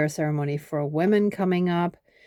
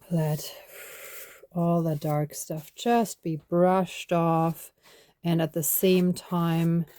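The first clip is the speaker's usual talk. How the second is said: guided meditation. Acted. Leads a body brushing ritual.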